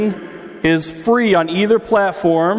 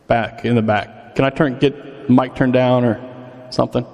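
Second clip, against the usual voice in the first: big hall echo; 3 semitones lower, slower than usual. Real, not acted. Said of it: "I'm echoing in my own head".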